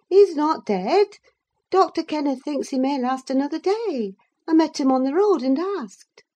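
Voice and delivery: high, bright-voiced chattering servant woman; Zillah the servant. Zillah to Nelly, eager gossiping servant voice. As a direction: fuss over her like a gossiping maid.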